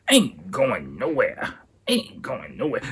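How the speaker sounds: high, slow drawn-out refusal; stubborn drunk refusal. Retold or imitated. Refusing friends drunk at club.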